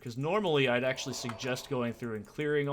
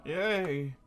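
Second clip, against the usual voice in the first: mock over-excited outburst, high and loud; hammed-up excitement with gasps and a cheer; Deckard Cain; 7 semitones higher, 7 dB louder, much slower than usual. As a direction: imitate someone getting way too excited. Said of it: "way too excited about it".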